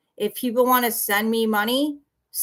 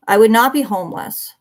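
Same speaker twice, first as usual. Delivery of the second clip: indignant denial; 8 dB louder than usual. Real, not acted. Rebutting a viewer's insult.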